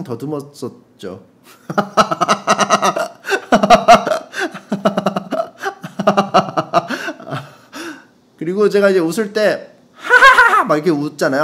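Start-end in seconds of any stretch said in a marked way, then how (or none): 1.7-7.4 high-pitched helpless cackle; long laughing fit. Real, not acted. Host cracks up at own confession. 9.9-10.6 loud, high "ha-ha-ha-ha"; high-tone laugh. Shown as a demonstration. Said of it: "하이톤으로".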